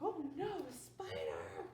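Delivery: high, loud, slow scream of a spider; hammed-up shriek at a spider; startled shout. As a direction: yell at the bug to get out. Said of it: "She's like".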